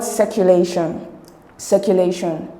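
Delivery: circulation with weight on the la syllable; stress on LA. Shown as a demonstration. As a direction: lean on "lay" in circulation. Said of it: "the stress is on lay".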